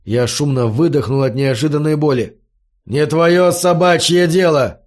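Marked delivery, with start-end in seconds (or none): 2.9-4.8 angry shout. Acted. Brute shouts, kicking.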